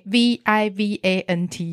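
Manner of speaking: slow letter-by-letter spelling. Shown as a demonstration. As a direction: spell each letter of V I V A N T slowly. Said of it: "我刚刚正想要问你说怎么拼".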